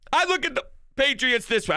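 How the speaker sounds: choked-up, rushed words. Real, not acted. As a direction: voice catching. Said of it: "I'm choking up again".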